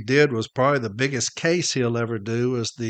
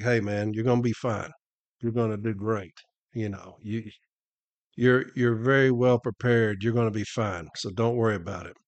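mildly calm a nervous friend down; retold reassurance; 2 semitones lower, 5 dB quieter than usual. Telling nervous Jason he's going to be fine, mildly reassuring.

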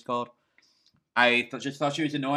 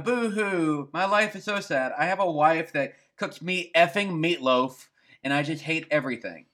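mock whiny sob voice; fake crying; 5 semitones higher than usual. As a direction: whine it like a mock crybaby. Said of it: "is a bit of a whiner".

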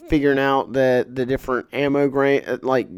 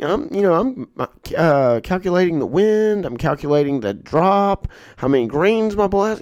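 much higher voice, lecturing; mock old shooter; 6 semitones higher than usual. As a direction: show off like a smug veteran. Old shooter explains his method.

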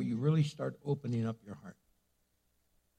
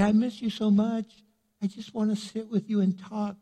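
tender; 5 semitones higher than usual. Shown as a demonstration. Wife to husband, gently sincere. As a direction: say it like you mean it.

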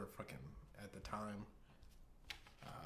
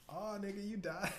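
high-pitched mock séance voice; Horrible Oracle; 10 semitones higher than usual. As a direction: pitch it up as a comic spirit-board prophet. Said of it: "he's, like, on the Ouija board".

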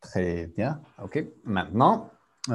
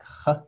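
throaty demo sound; 5 semitones higher than usual. Shown as a demonstration. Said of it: "the J in Spanish?".

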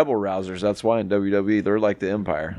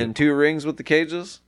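incredulous; 6 semitones higher, slower than usual. Real, not acted. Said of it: "That makes no sense".

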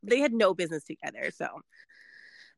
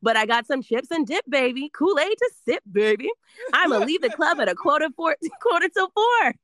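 upbeat, fast ad announcer; Kohl's commercial read; 4 semitones higher than usual. Shown as a demonstration. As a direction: sell it like a holiday TV ad. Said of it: "I'm giving you Kohl's commercial".

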